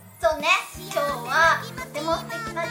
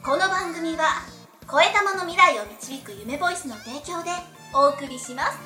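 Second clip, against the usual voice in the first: slow, measured sponsor credit; unhurried radio announcement; sponsor read; slower than usual. Acted. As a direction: read the programme credit deliberately.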